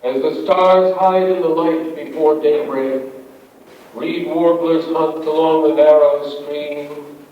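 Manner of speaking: measured, deliberate poem reading; poetry reading. Acted. Poet reading a dawn nature poem to an audience, measured recital. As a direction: read it as verse, letting each phrase settle. Reads own poem aloud.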